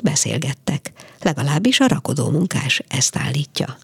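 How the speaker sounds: measured, lively literary reading; story narration. A narrator's reading. Radio host reads a short story to listeners, measured narration. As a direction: read the tale aloud for radio listeners.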